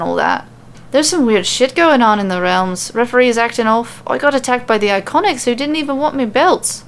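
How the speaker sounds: light Irish lilt, chatty and dismissive; Becky lightly voiced with Irish brogue; Irish accent. Becky scoffing at the legends, light Irish accent. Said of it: "super hard to switch between accents".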